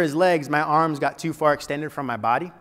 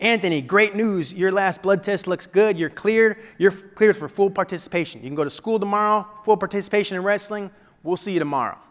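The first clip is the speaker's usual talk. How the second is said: higher-pitched upbeat voicemail voice; upbeat good news; 5 semitones higher than usual. Retold or imitated. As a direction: lightly imitate a doctor's good-news call.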